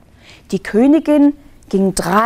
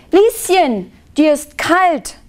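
higher-pitched, mild call; aunt calling out; 8 semitones higher, slower than usual. A narrator's reading. Aunt to Lieschen feeling cold, mild calling out. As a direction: call out lightly to a child. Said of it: "rief Tante Evelyn".

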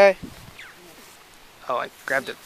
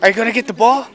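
calling from far away; 6 semitones higher, 6 dB louder than usual. Acted. Owner calls dog from afar.

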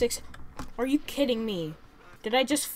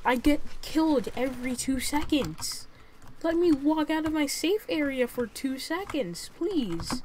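higher, louder exasperated complaint; annoyed; 4 semitones higher, 4 dB louder than usual. Real, not acted. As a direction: whine it out, fed up. Annoyed complaint at other player.

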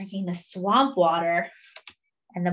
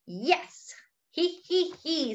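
mock giggle; 8 semitones higher, 4 dB quieter, slower than usual. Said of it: "said the elephant".

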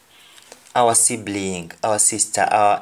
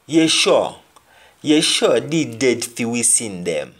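quoted speaker. Acted. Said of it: "somebody will say".

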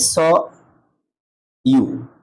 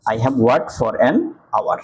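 slow demo reading; much slower than usual. Shown as a demonstration. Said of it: "N হয়".

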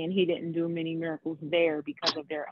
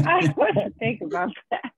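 real laughing through the words, louder; amused laughter; 4 semitones higher, 3 dB louder than usual. Real, not acted. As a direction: say it while cracking up. Listeners laugh at a joke.

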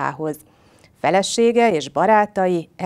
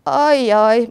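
high, loud, worried "uh-oh"; storybook fearful moan; tiger's trembling voice; 6 semitones higher, 7 dB louder than usual. A narrator's reading. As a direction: let alarm creep into the tiger's voice. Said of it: "mondta tigris remegő hangon".

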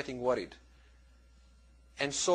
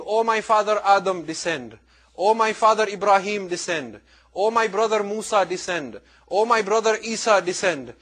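raised, higher summons dropping on "descend"; calling out; 3 semitones higher, 5 dB louder than usual. Retold or imitated. Man in a vision summoning prophets, retold loud calling. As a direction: call each name out, then let it fall.

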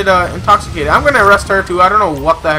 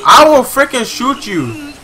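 higher-pitched, heated role-played cop threat; shouted threat; 5 semitones higher than usual. Officer warning a suspect at gunpoint, shouted threat.

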